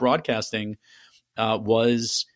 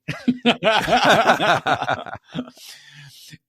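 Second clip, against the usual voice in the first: laughing; 7 semitones higher, 5 dB louder than usual. Real, not acted. Host laughing after quote exchange.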